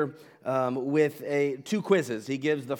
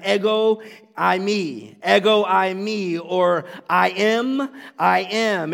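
booming declaration; 3 semitones higher, 6 dB louder, slower than usual. Shown as a demonstration. Preacher proclaims God's name to the congregation, booming. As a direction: ring out each I am with full force. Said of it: "translates that phrase".

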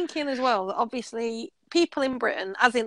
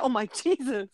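quieter shocked. Retold or imitated. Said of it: "like, literally that".

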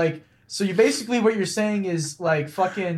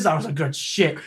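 lightly voiced, lower impression; deadpan mock reply, pitched down; imitating Tourette's guy; 5 semitones lower, 3 dB quieter than usual. Friend imitating the reply to the janitor, lightly voiced impression. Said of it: "You make him sound like Kevin from The Office".

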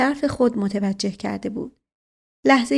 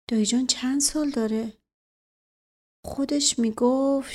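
anxious inner thoughts; 3 semitones higher than usual. Acted. Inner monologue of narrator boy.

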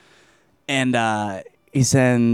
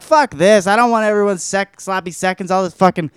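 higher, mock exasperated rant; fed-up outburst; 5 semitones higher than usual. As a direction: rant like a jilted boyfriend. Voices jealous man fed up.

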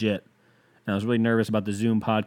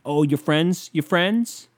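mock incredulous; 5 semitones higher, much slower than usual. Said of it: "mocking quoted listener".

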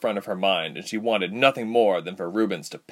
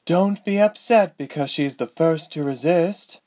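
higher, scornful retort; scornful woman; 8 semitones higher, 3 dB louder than usual. A narrator's reading. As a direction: sneer it down at him. Ladala voiced.

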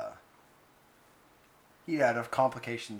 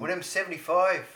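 higher Canadian accent sliding into Irish; failed Canadian accent; 4 semitones higher, 4 dB louder than usual. Shown as a demonstration. Co-host's Canadian accent attempt coming out Irish, pitched up. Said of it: "Is it Irish now?".

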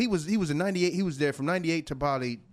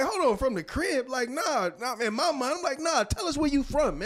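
baffled; 5 semitones higher than usual. Retold or imitated.

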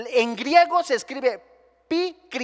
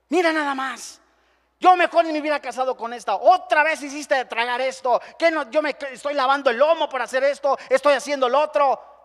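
mock husband grumbling, higher and louder; 4 semitones higher, 4 dB louder than usual. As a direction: complain like an irritated husband. Voicing a complaining husband.

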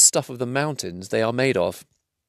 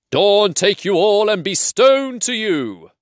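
slow ominous curse; 11 semitones higher, 4 dB louder, slower than usual. Acted. Wizard's curse in troll's voice.

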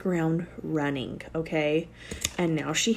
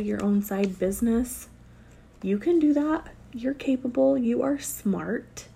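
higher, building encouragement to viewers; rising motivational pep talk; 4 semitones higher than usual. Real, not acted. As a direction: lift each line higher, cheering them on.

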